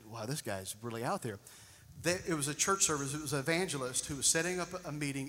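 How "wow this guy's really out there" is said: much softer, fast self-mocking aside; quick aside. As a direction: throw it away as a joke at yourself. Imagined listener's skeptical thought.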